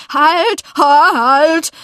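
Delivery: broken, urgent cry to stop; calling out. A narrator's reading. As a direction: shout after someone sliding away. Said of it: "und rief".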